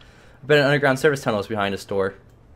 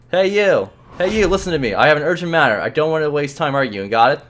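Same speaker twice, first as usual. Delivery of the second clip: higher, louder call for attention; demanding shout; 4 semitones higher, 3 dB louder than usual. Acted. Boy demanding the clerk listen, raised voice.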